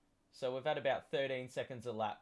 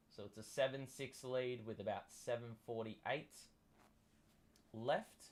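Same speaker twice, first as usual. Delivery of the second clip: sports commentary. Acted. Live game play-by-play.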